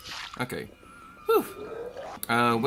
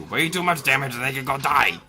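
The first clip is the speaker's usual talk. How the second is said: exasperated rant; 3 semitones higher, 4 dB louder than usual. Real, not acted. Ranting at hated enemy.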